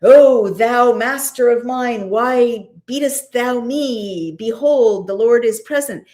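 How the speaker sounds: hammed-up archaic pleading, slow and drawn out; mock lofty speech. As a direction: declaim it like mock-biblical verse. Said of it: "Not, you know".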